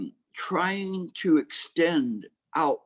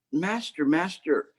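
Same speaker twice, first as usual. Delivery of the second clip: lightly voiced pleading dog, a bit higher; a dog eagerly calling his master, in a slightly raised voice; talking dog; 3 semitones higher than usual.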